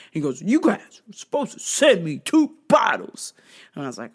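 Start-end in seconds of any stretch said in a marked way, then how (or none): 0.4-3.3 voiceless, pinched complaint; mock the whiny buyer; imitating the customer's breathy complaint.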